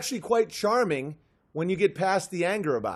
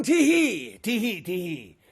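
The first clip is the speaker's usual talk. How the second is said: leprechaun giggle. Acted. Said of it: "And now I'm gone".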